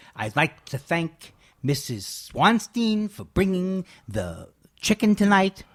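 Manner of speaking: put-on Midwestern American accent. Retelling another person's impression, in a Midwestern Jewish accent. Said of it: "a great impression of the Midwest Jew".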